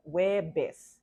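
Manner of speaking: "Hueves" slowly, starting straight on the w; silent first syllable. Shown as a demonstration. Teacher shows what it sounds like, "Hueves" as "WE-bes". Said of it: "sounds like".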